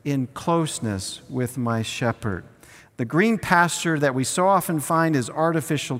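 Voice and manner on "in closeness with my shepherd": slow, measured lead line for all to repeat; slow unison recital. Shown as a demonstration. Pastor leading the congregation in a slow repeat. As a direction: pace it so everyone can join. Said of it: "Say that with me".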